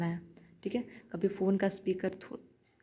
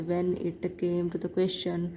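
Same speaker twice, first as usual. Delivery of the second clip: very slow, word-by-word reading of the question; slow halting reading; much slower than usual. Shown as a demonstration. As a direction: crawl through the English line like a struggling reader. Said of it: "ऐसे करके मत पढ़ो". (बहुत धीरे, एक एक शब्द अटक कर पढ़ना)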